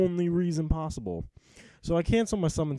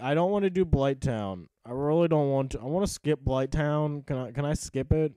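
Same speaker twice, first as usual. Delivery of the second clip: whiny pleading. Retold or imitated. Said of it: "I'm like".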